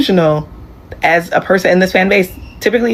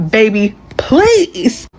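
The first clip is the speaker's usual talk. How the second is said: put-on pleading boyfriend; 2 semitones higher, much slower than usual.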